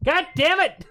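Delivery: loud high exasperated yell; angry yell. Real, not acted. Streamer yelling at the chat over bits. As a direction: curse it out at full volume. Streamer reacts to donation troll.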